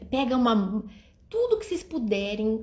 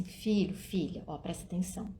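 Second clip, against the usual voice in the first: put-on gentle mother to child; 4 dB quieter than usual. Shown as a demonstration. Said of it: "fala assim".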